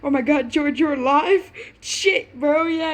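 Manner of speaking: high, loud, disbelieving cry of relief; shocked joy. Acted. Young father shocked to see George alive, high excited cry. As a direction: gasp it out, he's alive. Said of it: "covered his mouth in pure shock".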